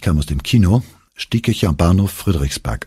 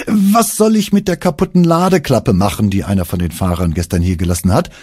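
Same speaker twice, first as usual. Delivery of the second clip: higher, hurried question to hold him back; desperate stalling question; 4 semitones higher than usual. Acted. Young worker stalls his boss, hurried desperate question. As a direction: blurt it out fast to distract the boss. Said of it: "in dem verzweifelten Versuch, ihn aufzuhalten".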